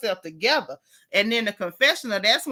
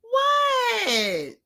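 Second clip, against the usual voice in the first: much higher, drawn-out incredulous what; 12 semitones higher than usual. Real, not acted. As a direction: cry it out in disbelief. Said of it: "is that not how she talk".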